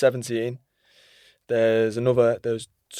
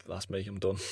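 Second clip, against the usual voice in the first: worn-out sigh; 3 semitones lower, 8 dB quieter than usual. Retold or imitated. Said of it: "I'd be like".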